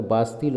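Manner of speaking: बास्तिल said as "baas-teel"; pronunciation of बास्तिल. Shown as a demonstration. Teacher showing students how the fort's name is pronounced, बास्तिल as baas-teel. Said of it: "इसका जो pronunciation होगा".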